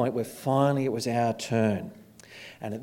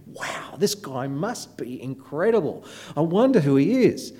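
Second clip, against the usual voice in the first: awestruck; 3 semitones higher than usual. Retold or imitated. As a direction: imitate an amazed, wondering inner voice. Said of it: "and I'm just thinking".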